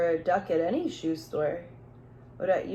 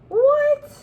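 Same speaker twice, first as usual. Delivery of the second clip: high, loud startled what; surprised; 8 dB louder than usual. Real, not acted. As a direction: blurt it out in disbelief. Surprised at the wish.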